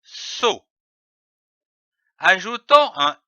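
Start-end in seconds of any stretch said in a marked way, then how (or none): 0.0-0.7 "So" said slowly and distinctly as a model; clear syllable demo. Shown as a demonstration. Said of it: "c'est dit O".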